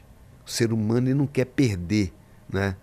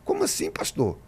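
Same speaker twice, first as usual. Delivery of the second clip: imitating the church sister. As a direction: play the offended sister protesting to her pastor. Pastor imita a irmã indignada. (voz de irmã indignada, aguda no início)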